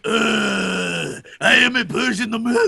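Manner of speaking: weak Persian accent attempt; bad Persian accent. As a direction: try a poor Persian accent. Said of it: "that was not accurate".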